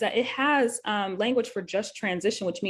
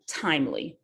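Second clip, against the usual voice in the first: "timely" set apart after a pause; pause, then a deliberate "timely"; emphasis on timely; 3 semitones lower than usual. Real, not acted. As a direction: let "timely" stand alone as its own point. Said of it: "Emphasis on the timely".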